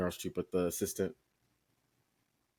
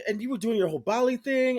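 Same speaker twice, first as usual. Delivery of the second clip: excited question; 11 semitones higher, 4 dB louder, faster than usual. Retold or imitated. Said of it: "He's like".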